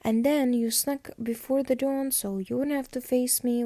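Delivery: lightly acted indignant rampage; mock freak-out. Caroline ranting at Matt for sneaking out, mock freak-out. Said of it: "Like, she freaks out".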